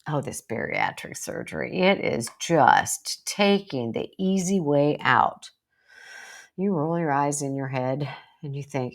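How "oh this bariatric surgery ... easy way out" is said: slow, lightly voiced gossip; dismissive relative. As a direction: sneer it off lightly. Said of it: "relatives start talking".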